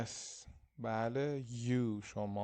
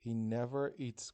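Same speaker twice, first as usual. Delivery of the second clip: never leaned on in a slow, careful read; stress on never; much slower than usual. Shown as a demonstration. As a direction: model it slowly, leaning on never. (تأکید روی never، آهسته و شمرده)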